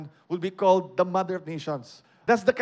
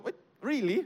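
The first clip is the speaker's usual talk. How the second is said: disbelief; 5 semitones higher than usual. Retold or imitated. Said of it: "it's like someone telling you".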